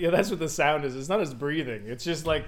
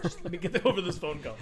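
quiet emperor voice; 3 semitones lower, 5 dB quieter than usual. Retold or imitated.

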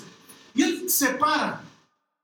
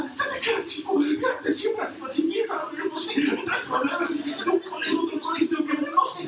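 higher, laughing flustered father; rambling father; 3 semitones higher than usual. Retold or imitated. A flustered father rambling to Jesus, higher and laughing. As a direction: babble like a worried dad. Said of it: "el papá está".

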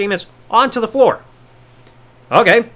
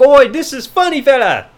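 put-on Irish accent; 4 semitones higher than usual. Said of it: "It's like".

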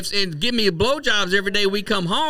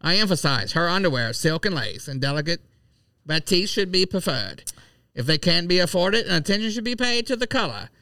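put-on old-fashioned transatlantic reading voice; 1940s voice; 2 semitones lower than usual. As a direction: read it like a 1940s announcer. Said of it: "That's my nineteen forties voice".

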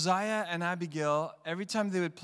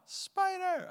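put-on scared child yelling. Child yells again.

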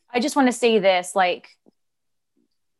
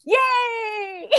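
excited yay; 12 semitones higher than usual. Retold or imitated. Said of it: "I'm like".

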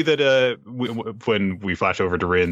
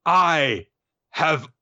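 raised voice, halting dramatic confession; Ren; 8 semitones higher than usual. Acted. Ren confesses to Ruru, high and boldly dramatic. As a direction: build up word by word with bold pauses. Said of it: "brimming with confidence".

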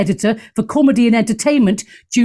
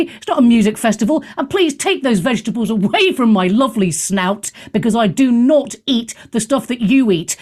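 mock dog voice. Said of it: "he's sitting there going".

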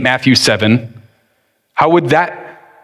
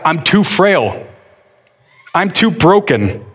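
begging God. Acted. A touch of David begging God to save him. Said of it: "begging God".

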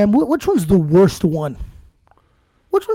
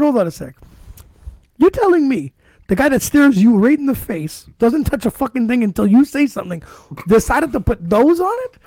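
incredulous questioning of mom, a bit louder; mock interrogation; 5 semitones higher, 4 dB louder than usual. Confronting his mom about the peppers, mildly incredulous. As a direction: grill her like you caught her. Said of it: "I said".

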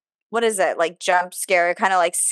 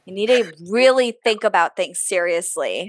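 sarcastic. Pretend. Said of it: "I'm being a little sarcastic".

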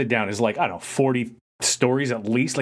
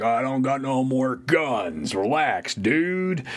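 slow, laid-back movie quote; Lebowski quote; much slower than usual. Retold or imitated. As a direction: lazily toss off the dude line. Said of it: "That was my Lebowski reference".

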